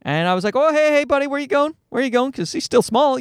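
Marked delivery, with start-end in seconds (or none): 0.6-2.3 put-on higher, quick call to a toddler; mild retold parental alarm; concerned dad. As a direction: lightly re-enact a dad checking a wandering kid. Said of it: "You don't want him to fall".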